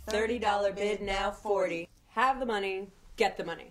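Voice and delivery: breathless auction chant attempt; gasping through the bid call; running out of breath. Real, not acted. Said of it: "running out of breath".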